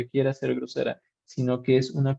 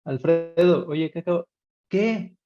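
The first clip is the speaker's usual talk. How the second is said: calling a name; 4 semitones higher, 3 dB louder than usual. Retold or imitated. Teacher calls student, exasperated.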